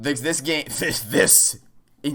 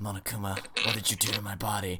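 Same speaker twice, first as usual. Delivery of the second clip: soft mumble, muttered under the breath; 5 semitones lower, 9 dB quieter than usual. Retelling what a game character muttered: imitating Kyoko mumbling. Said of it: "Kyoko mumbled something under her breath".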